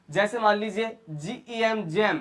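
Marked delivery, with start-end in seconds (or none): 1.8-2.2 जैम opening on a J sound; soft G. Shown as a demonstration. Teacher modelling G before E, जैम with a J sound. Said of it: "तो उसका sound क्या होगा?".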